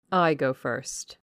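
like a soldier leading a hopeless charge; solemn resolve. Acted. Miss Ingram volunteers to go first, solemn and slow. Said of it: "in a tone which might have befitted the leader of a forlorn hope".

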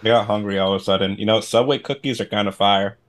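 talking while chewing; words round a bite of food; mouth full. Real, not acted. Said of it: "Are you eating on my show?".

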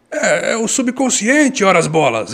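put-on high, slow Italian-accented Portuguese. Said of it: "fala de um jeito assim, né? Um sotaque italiano".

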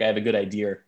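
lightly done Long Island accent; a hint of Long Island in the vowels. Shown as a demonstration. Podcast host demonstrating how locals say it, light Long Island accent. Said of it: "like a Long Island accent".

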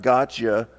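a mild accusing gotcha; understated condemning voice. Retold or imitated. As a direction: catch her out, lightly mocking. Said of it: "Almost sounds like a voice of condemnation".

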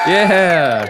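loud crowd-pumping yell; big high cheer, whipping up the crowd; milking the applause. Pretend.

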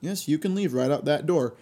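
lightly voiced cheerful host; Chris Hansen reply. Imitating the host dismissing the predator. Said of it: "Chris Hansen goes".

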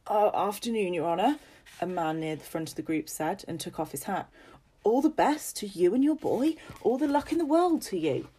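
bow and scrape to the gentleman; humble old soldier. Acted. Travelling man greets landowner.

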